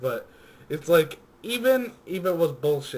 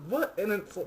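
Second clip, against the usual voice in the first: excited hype; 7 semitones higher, 6 dB louder than usual. Real, not acted. Hyping the trailer.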